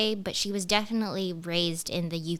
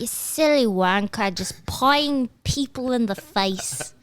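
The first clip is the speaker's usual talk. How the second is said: mock British accent; 2 semitones higher, 4 dB louder than usual. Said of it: "some British".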